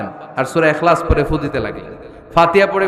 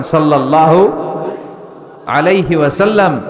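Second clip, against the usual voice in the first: leading aloud. Shown as a demonstration. Preacher leads congregation in the salutation, called out aloud. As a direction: lead the crowd aloud, rising on the first word. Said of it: "আওয়াজ করে সবাই পড়েন".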